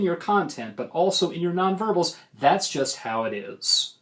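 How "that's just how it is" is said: slow, definite drop down to "is"; falling pitch. Shown as a demonstration. Coach showing debaters how to sound sure, falling pitch. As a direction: land "that's just how it is" with the voice coming down. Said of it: "So let your pitch fall".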